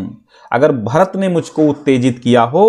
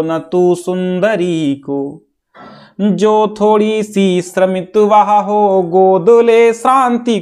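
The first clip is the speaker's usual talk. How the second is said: slow, melodic sing-song verse; drawn-out verse, lifting higher as it goes; poem recitation; 4 semitones higher, much slower than usual. Acted. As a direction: chant it with long-held syllables.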